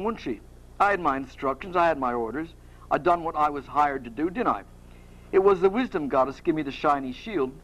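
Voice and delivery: lightly sketched Cockney; defensive Cockney chap explaining himself; amateur Cockney, mildly indignant; Perseus. Acted. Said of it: "like to do a Cockney accent".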